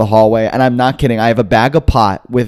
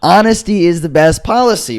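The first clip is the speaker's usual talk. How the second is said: higher, forceful restating of a principle; emphatic insistence; 6 semitones higher than usual. Retold or imitated. Teller lectures his doubting friends, emphatically insistent. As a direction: insist on it as if they missed it.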